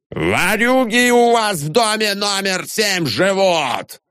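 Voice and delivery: high, slow yelled accusation; howling rant. A narrator's reading. Janitor howls at the house in a rage. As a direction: yell it to the whole courtyard. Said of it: "вопил дворник".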